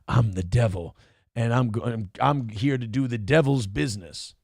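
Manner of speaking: low, creepy self-proclaimed devil; menacing devil guy. Retold or imitated. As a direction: drop the voice like a cult villain. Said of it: "the other guy going".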